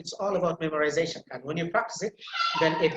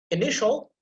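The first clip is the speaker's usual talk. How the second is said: "initial" with NI lifted higher; stress on second syllable; 5 semitones higher than usual. Shown as a demonstration. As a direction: lean on the middle of "initial". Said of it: "actually have to be emphasized".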